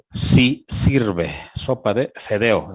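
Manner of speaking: slow, reading fedeo with e; mock misspoken menu. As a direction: imitate the popular speech, fedeo. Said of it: "En vez de decir fideo". (imitando el habla popular, lento)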